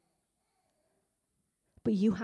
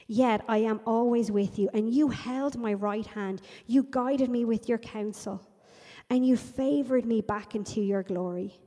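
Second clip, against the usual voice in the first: impassioned psalm recitation; 4 dB louder than usual. Acted. Declaiming psalm at raised volume.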